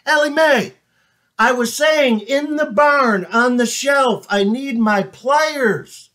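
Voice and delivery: dragging every word after the long walk; tired farmer. Acted. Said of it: "He goes up to her".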